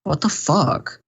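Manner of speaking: imitating her indignant rant; mock angry streamer; mock outraged streamer. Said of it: "then she's like".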